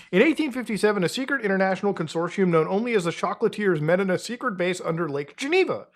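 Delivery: mock American newsreel-style narration; American narrator. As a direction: read the legend out grandly. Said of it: "Clearly, it's American".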